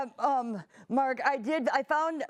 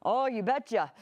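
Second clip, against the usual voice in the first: put-on Minnesota accent. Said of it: "my accent's coming back".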